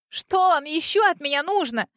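high, loud desperate cry; shout. A narrator's reading. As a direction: hurl it at him through tears. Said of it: "крикнула я".

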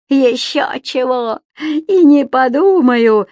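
дерзкий выкрик, выше и громче; нагло отрезать; дерзко. A narrator's reading. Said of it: "дерзко ответил Субастик". (Субастик дерзко отказывает Дауме, выше и громче)

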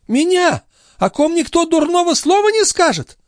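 put-on high outraged cry of an old concierge; indignant old woman. A narrator's reading. The concierge outraged at Marat's accusation, high indignant cry.

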